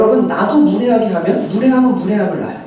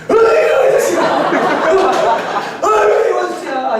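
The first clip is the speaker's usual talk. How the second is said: high-pitched, blustering scolding; mock angry parent; 8 semitones higher than usual. Typical parent blowing up at the child over the bill, mock angry. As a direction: act out a parent flying off the handle. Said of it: "애한테 막 화를 내겠죠".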